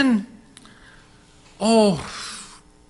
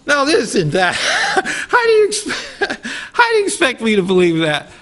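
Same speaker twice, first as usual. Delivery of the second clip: laughing hard, higher and louder; 8 semitones higher, 6 dB louder than usual. Real, not acted. Telling the listeners about his mother's tale, laughing hard. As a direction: crack up in disbelief.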